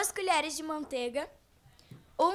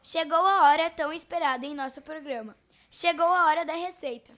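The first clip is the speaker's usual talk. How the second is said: louder radio announcer voice, big build-up; booming announcement; 6 dB louder than usual. Acted. Radio host to listeners, booming louder announcement.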